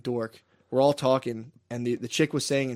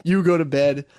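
imitated coach ordering; 4 semitones higher, 4 dB louder than usual. Coach sending the girls home and player to bed, imitated firm orders. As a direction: act out a coach dishing out orders one by one. Coach throws everyone out, retold.

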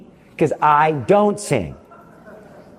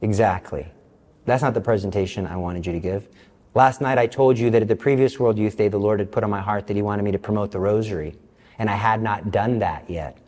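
softer, lower calm voice of God; voice of the Lord; 5 semitones lower, 5 dB quieter than usual. Retold or imitated. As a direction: answer gently from above, low and quiet. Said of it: "And then he says".

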